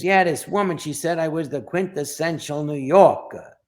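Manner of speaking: lightly voiced boxing manager; a hint of a character impression; Cha Cha. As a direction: imitate a New York fight manager. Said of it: "he talks like this".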